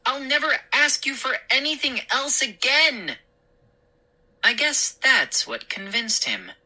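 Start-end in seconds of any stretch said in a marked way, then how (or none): 0.1-3.2 high, earnest bargaining; pleading promise. Acted. Boy bargaining with father, high pleading. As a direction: promise it as a last plea. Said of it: "And then I added".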